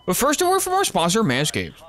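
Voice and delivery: high, hyped ad read; sponsor announcer voice. Acted.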